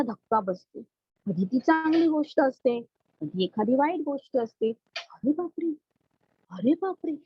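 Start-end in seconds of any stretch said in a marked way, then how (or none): 5.0-7.1 surprised gasp. Shown as a demonstration. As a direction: gasp it out like a startled child. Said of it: "असं आपण बोलतो".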